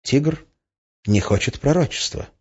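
halting, with a pause mid-phrase; slow. A narrator's reading. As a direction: say it slowly, piece by piece. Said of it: "медленно сказал он". (медленно, с паузой)

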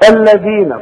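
الذين with a clear th as in "this"; tongue out on ذ. Shown as a demonstration. Teacher shows students the dhal, interdental in الذين. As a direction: put the tongue between teeth for ذ in الذين. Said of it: "طلع لسانك في الذال".

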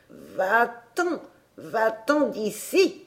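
an irritated oak spirit, slow and thin; a spooky tree voice telling him to leave; cross whispering-tree voice. A narrator's reading. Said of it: "une voix grêle et fâchée".

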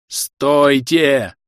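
loud shout; running shout. Acted. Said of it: "орал бегущий к ним".

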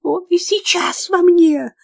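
high wailing cry. A narrator's reading. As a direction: wail it in possessed terror. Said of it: "голосила она".

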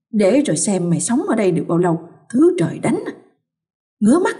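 mild venomous muttering; muttered spite. Acted. Mother-in-law muttering about her daughter-in-law, spiteful. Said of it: "lẩm bẩm".

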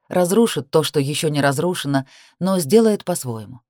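ordinary delivery

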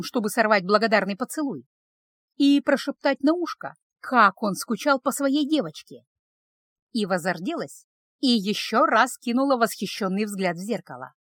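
ordinary delivery

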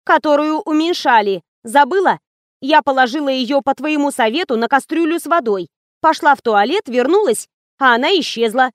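agitated. Acted. Лиза взволнованно объясняет пропажу.

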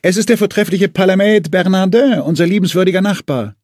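high, loud, overly grand introduction; hammed-up praise; mock grand announcement. A narrator's reading. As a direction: announce the pest like royalty. Mockingly announcing the hated guest.

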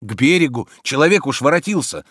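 insisting. A narrator's reading. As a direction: keep urging ashore. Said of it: "твердил Обломов". (настойчиво твердит)

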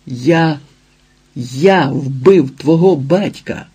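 slow, heavy angry outcry; furious shout. A narrator's reading. Ілія кричить дівчині про вбивство, люто. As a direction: hurl the confession at her in rage. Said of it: "вигукнув люто".

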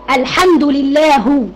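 لله drawn out slowly as lillahu with a final u; slow mistaken recitation of لله ending in u; wrong damma ending. Shown as a demonstration. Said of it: "المفروض لله". (الحمد لله بضم الهاء خطأً ببطء)

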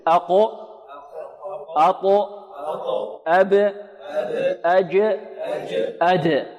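each letter in أقو and أطو given a short bouncing release; qalqalah demo. Shown as a demonstration. Teacher drills the echoing qalqalah letters. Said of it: "حروف القلقلة قطب جد".

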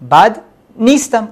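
بد نیستم said slowly and clearly, each syllable distinct; slow model phrase. Shown as a demonstration. Teacher has students repeat بد نیستم, slow and clear. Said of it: "Repeat after me".

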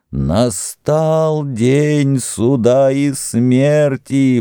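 slow, high, drawn-out moan. Acted. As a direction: moan it out like a doomed prophet. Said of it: "послышался стонущий голос".

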